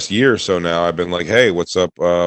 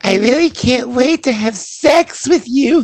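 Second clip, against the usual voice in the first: put-on squeaky, very high falsetto girly voice. Recalling the girl voice a man used to do for the camera, imitating his girl voice. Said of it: "after he would do the girl voice".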